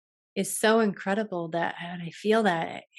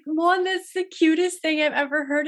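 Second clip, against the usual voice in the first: high, louder, tearful voice, as if starting to cry; retold bawling; 9 semitones higher, 5 dB louder than usual. Recalling crying at her partner's sweet request, high and tearful. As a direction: relive the moment the tears came, pitched up and louder. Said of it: "I started bawling".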